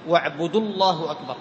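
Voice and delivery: "wa'budu-llahu akbar" in one run; long vowel dropped. Shown as a demonstration. Teacher points out the join to students, long vowel dropped. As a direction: link واعبدوا straight into الله with short u. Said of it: "يحذف حرف المد".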